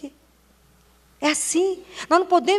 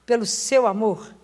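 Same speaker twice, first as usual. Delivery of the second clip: quiet prayer; 2 semitones lower than usual. Retold or imitated. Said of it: "a gente fala com Jesus".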